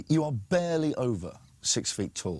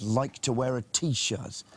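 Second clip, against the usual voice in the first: scornful; much slower than usual. Real, not acted. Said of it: "It's ridiculous".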